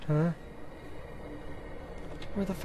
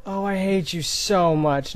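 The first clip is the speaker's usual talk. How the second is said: whiny complaint; 2 semitones higher, 4 dB louder, slower than usual. Real, not acted. Frustrated whine.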